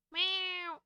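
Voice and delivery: high meow, falling; imitated kitten meow. Streamer copies the bathing kitten, imitated meow.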